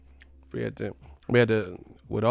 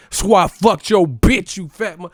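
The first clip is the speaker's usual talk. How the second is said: a rapper's diss track; 9 semitones higher, 10 dB louder than usual. Retold or imitated.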